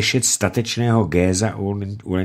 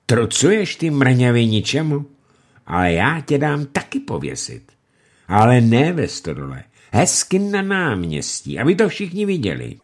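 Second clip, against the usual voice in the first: furious lord threatening; angry threat; 5 semitones higher than usual. Acted. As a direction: threaten him with the gallows. Lumey threatening the prisoner.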